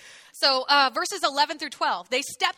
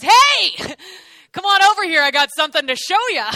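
playground bully; 4 semitones higher, 11 dB louder than usual. Retold or imitated. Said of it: "he goes".

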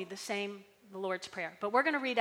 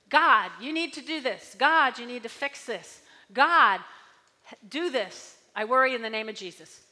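complaining prayer; 7 dB louder than usual. Retold or imitated. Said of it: "was more like a complaint".

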